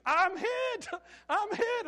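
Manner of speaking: high, loud panicked yell; imitated scream. Boy running at the houseparent after pellet shot, screaming. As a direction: scream it out like you've been shot. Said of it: "he screams".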